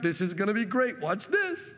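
playful cheerful build-up; eager excitement. Retold or imitated. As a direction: imitate a showman about to do a trick. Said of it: "You'd be like".

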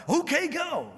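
high, weary giving-in "okay, go"; a tired parent finally caving. Retold or imitated. Worn-down parent giving in to a nagging kid, high-pitched.

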